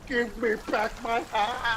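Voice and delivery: high shouting demand, slowed down; angry demand. Acted. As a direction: chase the monkey yelling. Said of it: "just like".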